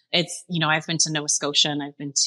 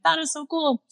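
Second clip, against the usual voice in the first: retold delight; 11 semitones higher than usual. Retold friends' delight at the story.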